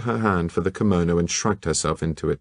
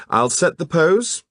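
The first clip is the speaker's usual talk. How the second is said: brisk, higher, louder instruction; 11 semitones higher, 4 dB louder than usual. Acted. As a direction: take charge of the class. Said Troy loudly.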